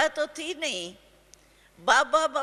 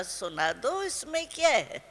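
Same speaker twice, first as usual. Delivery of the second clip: spoken lovingly. Retold or imitated. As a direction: coax her gently to speak. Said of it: "प्यार से बोला".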